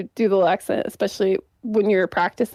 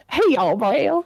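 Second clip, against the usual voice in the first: Southern accent; 4 semitones higher than usual. Shown as a demonstration. Podcaster on the spot attempts the name, in a Southern accent. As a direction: try a hint of Southern twang, higher pitched. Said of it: "if I'm gonna go Southern".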